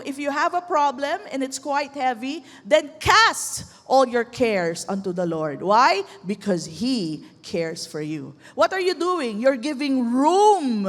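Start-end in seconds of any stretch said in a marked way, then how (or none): 2.6-5.6 slow, with CAST hit hard; weighty, drawn-out "cast all your cares"; emphatic exhortation. Real, not acted. Preacher urging listeners to hand over problems, emphatic exhortation. 6.2-8.4 low, slow, measured assurance; reassuring. Real, not acted. Preacher assuring burdened mothers of God's care, reassuring. Answers own why with scripture.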